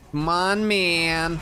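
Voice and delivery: real pleading cheer; excited urging. Real, not acted. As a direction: push the game along eagerly. Urging game on.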